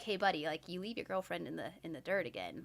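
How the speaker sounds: soft, low, quietly threatening; low menacing warning. Retold or imitated. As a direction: lean in and warn him under your breath. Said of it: "That's how he says it".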